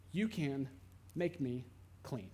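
soft, low, fading request; quiet plea. Acted. Leper softly asking Jesus to make him clean. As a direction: let it drop almost to nothing.

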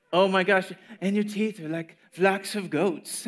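lightly mocking gush. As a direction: swoon a little over it. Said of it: "People are".

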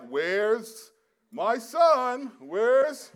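high, loud playful calling; mock searching parent. Parent pretending to search for giggling kids, playful call. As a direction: play the parent who cannot find them.

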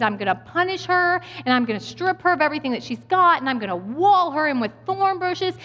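a touch of indignant wrath, imitated; angry God. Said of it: "God's anger and how upset he is".

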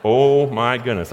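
relieved disbelief. Retold or imitated. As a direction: let it out slowly through a laugh of relief. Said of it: "I was like".

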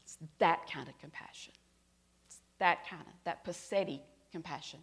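whispered, reverent point; hushed whisper of awe. Real, not acted. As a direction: breathe the line to the congregation. Preacher's reflective point.

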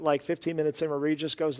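ordinary talk

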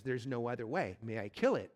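low, steady angel voice; calm angel. Acted. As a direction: ask it gravely, unhurried, as a towering angel. Angel answers the ghost.

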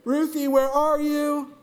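high, slow sing-song call; dad calling through the house. Retold or imitated. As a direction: call up the stairs for her. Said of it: "I'm calling for her".

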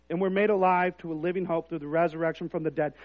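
soft, hushed reading of the verse; quiet scripture reading. Real, not acted. Pastor reading scripture to the congregation, hushed and soft. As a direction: read it softly, almost to yourself. Reads scripture passage softly.

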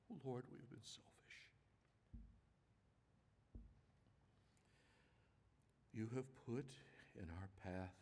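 unhurried, earnest public prayer; prayer of confession. Real, not acted. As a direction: confess to God haltingly, phrase by phrase.

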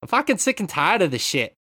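put-on loud, high not-quite Boston accent; fed-up rant in a patchy Boston accent; half a Boston accent. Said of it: "It's like half a Boston accent".

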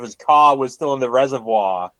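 lightly imitated Boston accent; mock a bad Boston accent. Co-host mocking an actor's flubbed line, hint of Boston accent. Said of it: "David Harbour's Boston accent is".

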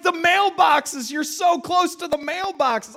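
high, loud alarmed warning; panicked father yelling. Retold or imitated. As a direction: imitate a dad shrieking at a near miss. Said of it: "he starts yelling out".

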